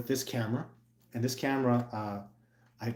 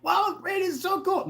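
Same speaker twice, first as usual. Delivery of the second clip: high, slow mock fan swoon; mock gushing over a famous friend; starstruck gush; 5 dB louder than usual. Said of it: "I'm not like".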